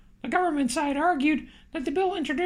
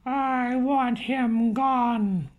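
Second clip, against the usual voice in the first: slow, drawn-out mild growl; 2 semitones lower, much slower than usual. Acted. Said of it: "growled the boss".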